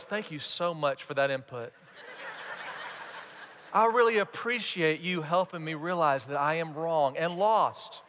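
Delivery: measured, deadpan husband thanks; husband politely thanking, tongue in cheek; mock gratitude. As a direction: play insincerely polite appreciation. Imagined husband's unlikely grateful reply.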